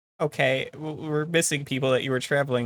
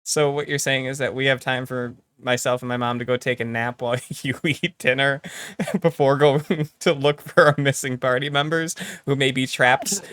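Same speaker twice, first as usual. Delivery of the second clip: laughing through the words; amused. Real, not acted. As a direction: let giggles break up the recap. Laughs through summing up absurd plan.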